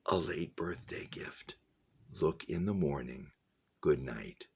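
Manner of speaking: breathy whispered gift in the dark. A narrator's reading. Max whispering to sleepy Liesel at night, hushed. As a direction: whisper it so she barely hears. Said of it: "couldn't tell exactly where the words came from".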